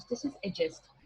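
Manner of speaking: adjust said simply, slow and relaxed. Shown as a demonstration. Teacher showing the relaxed way to say adjust. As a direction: say adjust easily, no force on any sound. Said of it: "बिल्कुल simple होके, relax होके बोलना है".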